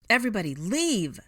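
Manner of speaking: loud, urgent evacuation cry; high commanding yell; shouted order. A narrator's reading. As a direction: call it out over chaos. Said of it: "to call out the order".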